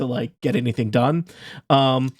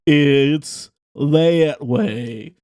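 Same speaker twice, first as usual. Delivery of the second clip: friendly tavern owner; 3 dB louder, much slower than usual. Acted. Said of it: "He's like".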